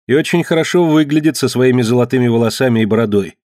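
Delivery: put-on a worn girl admiring the stranger; Marge's voice.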